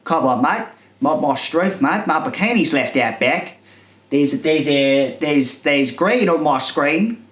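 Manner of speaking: shaky grasp of an Australian accent; badly faked Australian accent; attempted Australian accent. Shown as a demonstration. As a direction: have a go at a broad Australian accent, mate. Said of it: "able to do an Australian accent".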